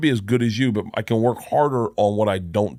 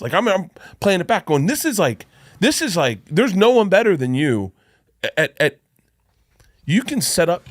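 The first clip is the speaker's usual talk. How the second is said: excited raving; 7 semitones higher than usual. Retold or imitated. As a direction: gush about a brilliant set in the car. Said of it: "And I was like".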